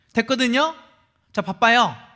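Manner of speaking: high, loud, cold, dismissive tone.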